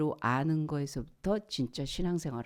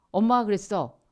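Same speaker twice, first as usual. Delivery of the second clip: put-on gleeful child; 4 semitones higher, 7 dB louder than usual.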